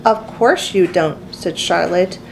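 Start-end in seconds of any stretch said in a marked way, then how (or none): 0.1-1.2 comforting. Acted. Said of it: "in a comforting voice".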